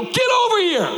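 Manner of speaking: high, loud barked order; commanding shout. Retold or imitated. Dad ordering his crying son to stand up, shouting. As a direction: snap him out of it with a shout. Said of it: "I go".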